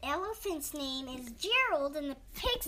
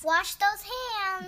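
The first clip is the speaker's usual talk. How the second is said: louder, higher, slow echo of the line; echoed higher, slower; 5 semitones higher, 6 dB louder, slower than usual. Acted. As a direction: sing it back big and slow. Echoing the sign-off.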